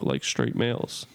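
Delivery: low, slow straight-guy voice; straight male voice. Shown as a demonstration. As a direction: drop into a deep dude voice. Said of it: "other gay men talk".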